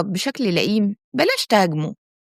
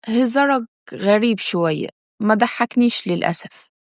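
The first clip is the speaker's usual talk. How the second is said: cold smile. Shown as a demonstration. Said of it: "رد عليه بابتسامة باردة جدًا".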